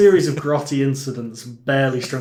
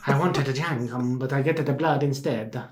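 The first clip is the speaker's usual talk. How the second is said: put-on slow, hammy broken-English Italian accent; drawn-out mock Italian lament; 3 dB quieter than usual. Co-host voices bleeding Father Tom as a joke, in a slow mock Italian accent. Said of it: "that accent you're doing".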